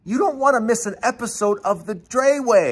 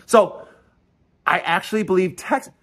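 normal talking voice

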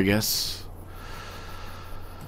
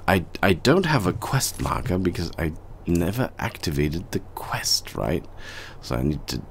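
whispering; 3 semitones lower, 5 dB quieter than usual. Real, not acted. Whispering to himself about quest.

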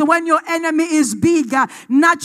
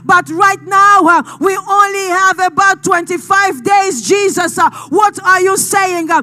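forceful sermon delivery, building in intensity; impassioned preaching; 3 semitones higher, 4 dB louder than usual. Real, not acted. Preacher urging the congregation to take fear to God, impassioned. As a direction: preach it with insistent, punched phrases.

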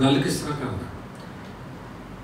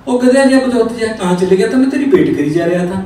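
raised, impatient telling-off; mock-angry master's outburst; berating; 5 semitones higher, 4 dB louder than usual. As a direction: scold the late servant, starting high. Master berates servant returning late.

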